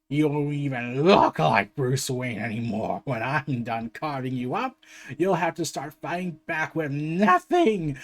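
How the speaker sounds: lightly voiced Joker gloating; Joker taunting. Joker taunting Batman about Gotham, low and mocking. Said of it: "as he continues to laugh".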